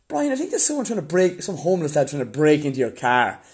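high, loud, alarmed coworker voice. Retold or imitated. Coworker warning Brian of a break-in, high alarmed voice. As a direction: squeak it out like a startled office worker.

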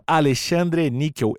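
dictating. Shown as a demonstration. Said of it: "N I C K E L".

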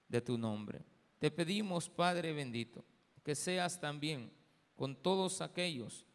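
steady, projected prayer in short phrases; earnest public prayer, settling at the close; congregational prayer. Real, not acted. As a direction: lead the church in thanks and petition.

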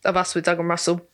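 talking through hiccups; hiccupy speech between catches. Real, not acted. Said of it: "Sorry, I've got the hiccups".

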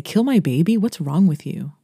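outraged cry; mad and crying. Retold or imitated. Mother yelling at George about the baby, outraged. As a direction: hurl it back at him, hurt and furious. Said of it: "get really mad and cry and say".

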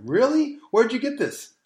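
a hint of an amazed young woman; mock amazed young woman. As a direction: ask it like a starstruck girl. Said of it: "these young women go".

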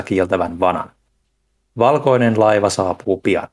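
measured, solemn farewell poem; poem reading. Real, not acted. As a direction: read it out like a literary send-off, phrase by phrase. Reads a listener's poetic farewell aloud.

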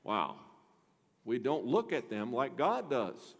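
normal talking voice

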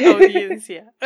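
high, loud triumphant blurt; excited exclamation. Real, not acted. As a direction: shout it out like a eureka. Triumphantly finding the word.

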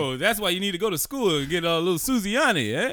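loud, high mock mobster dad; mock Italian-American dad scolding his kid, loud; terrible Italian-American accent. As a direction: bark it like a cartoon wiseguy father. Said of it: "this is a terrible accent".

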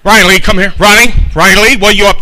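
mom calling. Retold or imitated. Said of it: "And I hear her voice".

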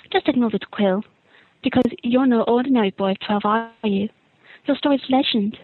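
lightly voiced prying reporter, dramatic pauses; Rita Skeeter. Reporter interviewing a boy of twelve about the tournament, lightly theatrical. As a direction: lightly play a tabloid interviewer building a story. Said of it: "my impression of Rita Skeeter".

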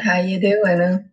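slow put-on voice. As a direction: drawl it out like a smooth flirt. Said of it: "I don't like how you said".

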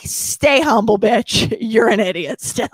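life's blunt rebuke. Retold or imitated. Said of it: "life was just like".

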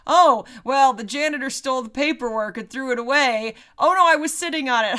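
loud sneering boss; cartoon villain voice. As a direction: bark it like an over-the-top villain. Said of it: "he's barking orders".

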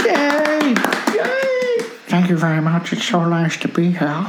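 mock star thanking the audience; a famous singer. Host plays a singer greeting an imagined crowd. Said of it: "Ladies and gentlemen, the singer".

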